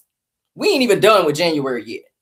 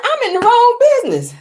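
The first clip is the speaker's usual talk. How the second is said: mock regret; 5 dB louder than usual. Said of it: "I said".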